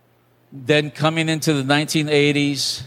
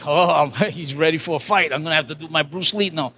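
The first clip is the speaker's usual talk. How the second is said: chuckling mock bravado; laughing aside; faster than usual. Joking to the congregation that the clerk wants a fight, laughing. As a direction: joke through a laugh.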